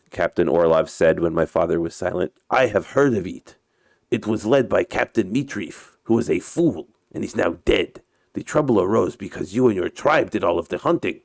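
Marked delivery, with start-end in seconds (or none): 2.5-11.2 put-on Russian captain's accented English; story character with a put-on Russian accent. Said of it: "uh, my Russian accent".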